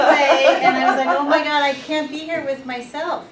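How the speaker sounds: loud, laughing mock panic; a hammed-up laughing wail of panic.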